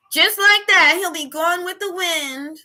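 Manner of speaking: drawn-out emphatic delivery. Shown as a demonstration. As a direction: punch it up and stretch it out.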